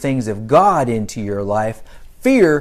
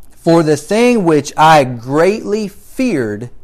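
scripture reading; 3 dB louder than usual. Acted. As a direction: read the verse out with preacher's weight. Reads scripture aloud to congregation.

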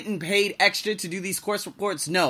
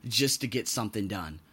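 exasperated groan; 5 semitones lower, 5 dB quieter than usual. Retold or imitated. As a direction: drag it out like you're fed up with paperwork. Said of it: "where you're like".

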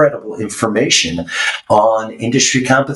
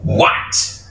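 put-on very high, rasping old keeper; bridge keeper voice; much slower than usual. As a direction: shriek like an ancient gatekeeper. Bridge keeper questions knight.

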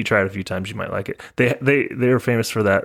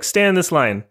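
higher-pitched put-on Japanese accent; imitated Japanese accent; 8 semitones higher than usual. Airline ladies direct passenger in airport, imitated Japanese accent. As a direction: give a short instruction in mock Japanese accent. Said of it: "kinda what they sounded like".

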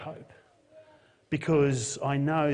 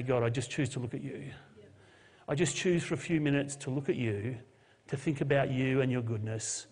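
quiet prayer; 4 dB quieter than usual. Shown as a demonstration.

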